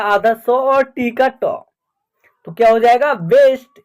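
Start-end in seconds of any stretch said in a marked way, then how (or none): 3.1-3.8 बेस्ट starting on a clear 'b'; B sound in बेस्ट. Shown as a demonstration. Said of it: "बी का ब उच्चारण हो रहा है". (बेस्ट में साफ़ ब)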